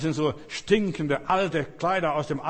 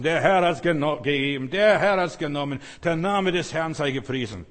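acted outburst of praise, punched hard; emphatic praise; 4 dB louder than usual. Preacher voicing Job praising the Redeemer, forceful. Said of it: "den Erlöser zu preisen".

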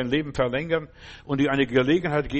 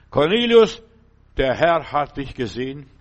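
angel's call; 6 dB louder than usual. Acted. Angel announces to Cornelius.

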